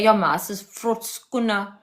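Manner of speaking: slow, then loud Afrikaans-flavoured phrase; playful Afrikaans slang demo; Afrikaans accent. Shown as a demonstration. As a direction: switch fully into Afrikaans mode. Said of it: "I can change it up completely and say".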